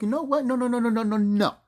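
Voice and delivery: high, rapid string of refusals; dismissive self-quote. Retold or imitated. Storyteller deciding against taking him to court, dismissive self-quote. Voicing own change of mind.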